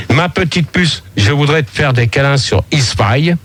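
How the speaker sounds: measured, repetitive love-poem cadence; poem recitation. Acted. Poet reciting a love poem on air, earnest recitation. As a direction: recite each verse with a falling second half.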